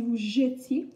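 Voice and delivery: "jetiez" said "jeu-tiez"; E as schwa. Shown as a demonstration. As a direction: contrast demo of "jetiez" with schwa. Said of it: "comme un E traditionnel".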